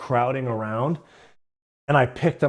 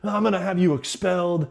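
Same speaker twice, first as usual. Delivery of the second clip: hammed-up yelling principal, pitched up; mock scream; 7 semitones higher than usual. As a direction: imitate a principal screaming at a kid. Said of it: "screaming at me".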